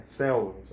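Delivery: weight on the SEL of "selvas"; stress on first syllable. Shown as a demonstration. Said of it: "É a penúltima".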